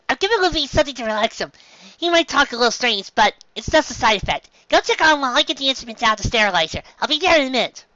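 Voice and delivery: put-on high young reindeer doctor, earnest; high, brisk little doctor voice; Chopper. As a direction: give orders as a small, serious doctor.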